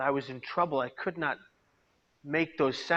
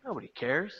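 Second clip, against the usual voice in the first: quiet, resigned murmur; despairing thought; 2 semitones higher, 3 dB quieter than usual. Retold or imitated. Hopeless inner thought after leaving the bus, quiet. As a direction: let it sink in hopelessly. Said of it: "I thought".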